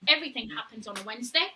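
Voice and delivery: quick, matter-of-fact "Everything happens on a Wednesday"; quick aside. Real, not acted. Host explaining the day to listeners, quick aside. First take, before the emphatic repeat.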